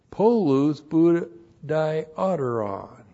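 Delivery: "Polus budioteron" said slowly, every syllable spelled out; careful pronunciation. Shown as a demonstration. Preacher teaching the congregation how to say the Greek, slow and careful. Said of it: "P O L U S P O".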